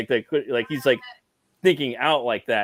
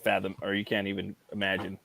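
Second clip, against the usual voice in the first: ominous god voice; 6 semitones lower, 6 dB quieter than usual. Acted. Voicing an elder god.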